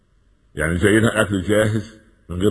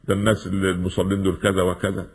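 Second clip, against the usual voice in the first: put-on scoffing young man. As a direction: drag it out like a lazy boy brushing off prayer. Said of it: "يقول".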